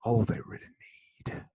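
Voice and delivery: a light Southern preacher drawl, mostly in his own voice; a hint of Southern preacher drawl. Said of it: "the Southern drawl came out".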